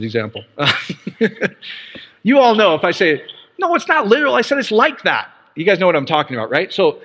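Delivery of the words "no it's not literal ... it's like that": high-pitched, insistent protest; acted objection, voice jumping up; mock exasperated correction. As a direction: set them straight in playful exasperation. Acted correction of a literal reading.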